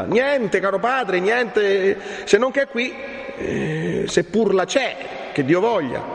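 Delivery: put-on high, urgent young Renzo; agitated young man. Renzo tells the friar he found nothing, agitated and high. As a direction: plead upward in a high, troubled voice.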